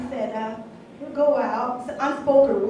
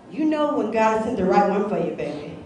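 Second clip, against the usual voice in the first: lower-pitched mock church elder, dropping away on the last word; imitated church mother; 4 semitones lower than usual. Single woman mimicking church mother's advice, mock elder. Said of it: "hear the pastor or the church mother say".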